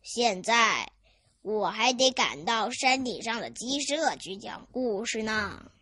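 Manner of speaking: put-on an old storyteller taking his leave; kindly old storyteller. Grandpa explains his next visit to the chicks, kindly.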